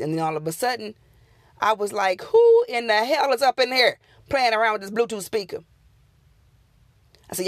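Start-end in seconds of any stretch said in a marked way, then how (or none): 2.2-5.6 angry shout. Retold or imitated. Confronting the unseen speaker.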